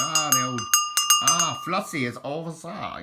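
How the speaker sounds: calling out. Pretend. Imagined goat owner spotting Flossie in the woods, calling out. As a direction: hail someone far off among the trees.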